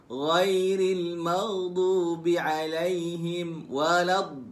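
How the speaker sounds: recitation cut off on walad; wrong stop at walad. Shown as a demonstration. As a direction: halt badly on walad-. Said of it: "jangan walad". (bacaan terhenti salah pada walad)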